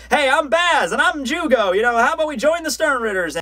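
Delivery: high, cheery mock-kid voice; eager kids. Two kids introducing themselves to the recruiters, high and eager. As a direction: pitch it up like children volunteering. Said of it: "they're just basically like".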